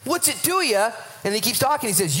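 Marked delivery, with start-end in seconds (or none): 0.0-0.9 higher, pointed comeback; Jesus answering Peter with higher sarcasm; sarcastic Jesus. Retold or imitated. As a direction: brush off the nosy question. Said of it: "He says something completely sarcastic".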